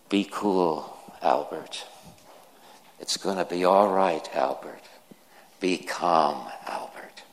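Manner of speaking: put-on gently calming a screaming child; soothing words. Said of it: "speaking such soothing words".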